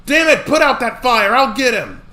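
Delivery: high, loud urgent yelling; frantic shouting. Acted. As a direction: bark orders over the fire. Shouting orders at a fire.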